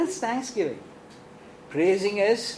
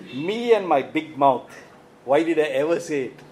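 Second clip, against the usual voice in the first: mock regret; 4 semitones lower than usual. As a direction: act out rueful second thoughts, dragging the opening. Voicing someone's regret after speaking.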